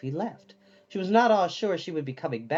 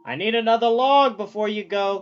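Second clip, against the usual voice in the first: louder, higher crackly fire demon; fire demon Calcifer; 6 semitones higher, 7 dB louder than usual. A narrator's reading. Calcifer the fire demon reminding Sophie, fire demon voice. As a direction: remind her like a needy little fire demon.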